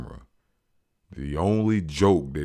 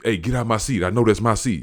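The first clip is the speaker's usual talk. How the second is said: higher, pushy mimic of the passenger; mock rude demand; 5 semitones higher, 5 dB louder, faster than usual. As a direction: needle him with a grin in your voice. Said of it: "with that grin on his face like".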